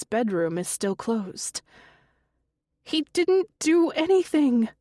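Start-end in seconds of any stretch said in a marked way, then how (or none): 2.8-4.7 high, loud desperate shout. A narrator's reading. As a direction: shout to defend him. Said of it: "Connie shouts".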